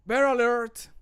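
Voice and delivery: high shouted warning; voice-line yell. Shown as a demonstration. Voice actor yelling a warning line. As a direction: call it out sharply. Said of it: "when I have to kind of scream".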